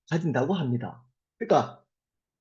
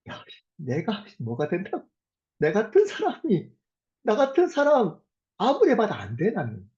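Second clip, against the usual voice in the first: self-mocking; 2 semitones higher than usual. A person jeering at their own worth, mildly self-mocking. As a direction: put yourself down, lightly acted. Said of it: "자기가 자기 스스로에게 이런 조롱".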